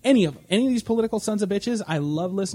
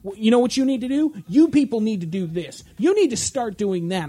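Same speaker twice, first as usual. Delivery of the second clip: mock spouting pundit; 3 semitones higher than usual. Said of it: "Glenn Beck starts spouting".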